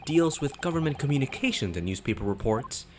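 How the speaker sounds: high, proud prim lady; high pitched self-important witness. Acted. Juror character voiced.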